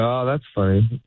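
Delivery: genuine, easy "that's funny"; mean it when saying "Oh, that's funny"; sincere "Oh, that's funny". Shown as a demonstration. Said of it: "in this tone".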